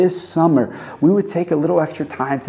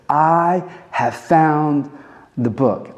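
slow, drawn-out announcement, raised in pitch; awed excitement; 3 semitones higher, much slower than usual. Acted. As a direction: stretch out the discovery. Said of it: "picture him saying this with excitement".

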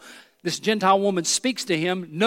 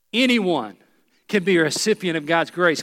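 proclaimed. Shown as a demonstration. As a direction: declare it to the whole room. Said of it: "Write it down".

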